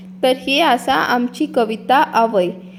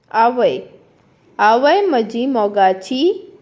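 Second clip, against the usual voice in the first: poem recitation. Shown as a demonstration. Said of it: "हांव पयलीं ताचें वाचन करतलें".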